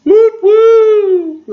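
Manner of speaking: high, loud sing-song whoop whoop; a cheerful rising call to kick off the video; playful whoops. Real, not acted.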